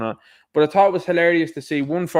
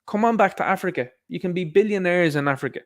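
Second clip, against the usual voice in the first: higher-pitched retold invitation; lightly voiced rallying call, raised pitch; imitating a singer; 4 semitones higher than usual. Imitating singer inviting people back to Africa, higher mock appeal. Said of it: "He's told everybody that's black to be like".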